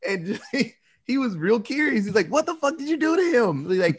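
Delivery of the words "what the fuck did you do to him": pitched way up, demanding; mock demand. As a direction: squeeze it out of him. Retells Jim demanding an answer.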